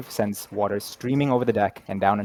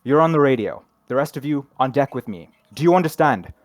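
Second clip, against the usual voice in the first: loud barked order over the wind; captain roaring an order at the crew; 4 semitones higher, 5 dB louder than usual. Acted. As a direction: bellow it like a man possessed. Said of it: "roars like a man possessed".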